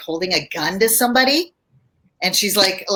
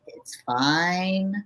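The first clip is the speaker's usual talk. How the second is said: low and slow; slower than usual. Shown as a demonstration. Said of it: "They call it low and slow".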